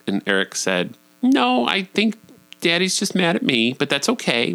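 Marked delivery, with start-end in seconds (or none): 1.2-4.5 put-on higher, careful voice for a child; reassuring parent. Dad telling kid Daddy's just mad, reassuring. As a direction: imitate a dad gently explaining upward in pitch.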